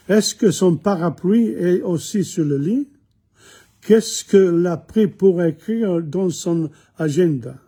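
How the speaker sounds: careful French questions read for learners. Shown as a demonstration. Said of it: "And the questions are".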